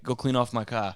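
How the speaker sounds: put-on a light Boston accent on a gruff dad's order; mild Boston accent, dad ordering the kid out to the car. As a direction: play old-school pop barking chores with a hint of Boston. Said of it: "I did a Boston accent".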